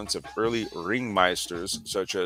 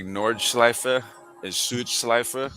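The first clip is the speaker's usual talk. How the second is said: slow, careful German-accent Nordschleife and Südschleife; 3 semitones higher, much slower than usual. Shown as a demonstration. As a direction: show off a hammy German accent. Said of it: "Let me hear it".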